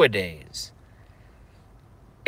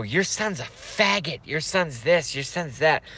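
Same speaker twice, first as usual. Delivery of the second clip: higher, slower mocking singsong; taunting mean girl; 4 semitones higher than usual. Imitating girls taunting his crying mom in a higher mocking voice. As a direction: needle the mother with a sneering lilt.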